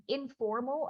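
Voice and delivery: "informal" set apart with emphasis; stress on informal. Real, not acted. Organiser describing the unconference to participants, emphatic "informal". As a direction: lean on the word "informal". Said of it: "I stress that word".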